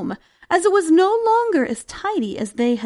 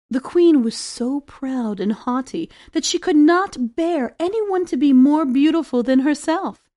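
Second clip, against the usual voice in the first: ordinary delivery, nothing marked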